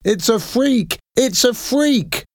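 mock him like a pack of cruel kids; jeering shout. A narrator's reading. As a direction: street kids taunting the hooded man. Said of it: "they shouted".

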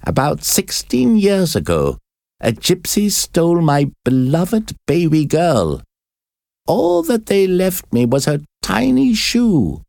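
put-on high, aching old woman's voice; grieving mother. A narrator's reading. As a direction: mourn the stolen baby. Paquette tells her grief.

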